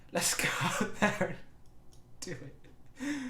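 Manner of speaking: high, breaking into laughter; laughing. Real, not acted. Manager rallying the lads, laughing as he speaks. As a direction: try to give a pep talk through laughter. Laughing through his team talk.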